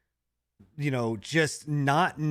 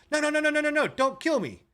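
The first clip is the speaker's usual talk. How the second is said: mock pleading; 13 semitones higher than usual. NPC begging for life.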